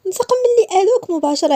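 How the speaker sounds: high, sharp reproach; angry reproach. Acted. Aya confronting Issa, angry reproach. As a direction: confront him with anger.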